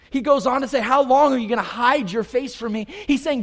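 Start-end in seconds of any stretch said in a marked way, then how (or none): 0.8-2.9 crying out to God. Acted. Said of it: "he's just crying out to God".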